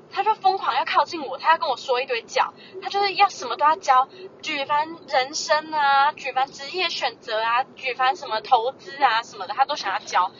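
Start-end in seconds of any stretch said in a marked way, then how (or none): 4.4-9.4 slow listing. Real, not acted. Listing the uncle's lectures.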